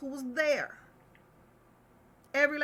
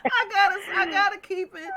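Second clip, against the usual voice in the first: close to crying; 8 semitones higher, 7 dB louder than usual. Real, not acted. Grieving for a rapper, voice breaking into a cry. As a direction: cry breaking in, higher and louder. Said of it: "to keep me from crying".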